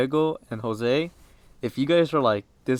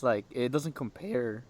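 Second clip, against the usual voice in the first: voice cracking; 6 dB quieter, slower than usual. Real, not acted. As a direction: voice breaks mid-phrase. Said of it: "Voice crack right there".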